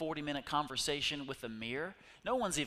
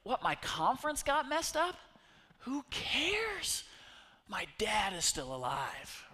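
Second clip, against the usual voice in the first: much higher, incredulous who-cares voice; mock dismissive; 8 semitones higher, 3 dB louder than usual. Preacher imitates the speaker shrugging off a ruined conference. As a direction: brush it off like it's nothing. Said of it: "and he's like".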